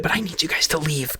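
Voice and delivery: urgent unvoiced whisper. Panicked ambassador drops to whisper.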